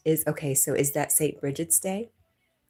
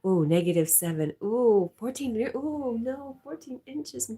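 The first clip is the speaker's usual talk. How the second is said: rising, louder oohs of disbelief; shocked surprise; 7 semitones higher, 5 dB louder than usual. Real, not acted. Streamer reacting to a viewer's fourteen inches of snow, amazed. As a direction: gasp at the snowfall numbers.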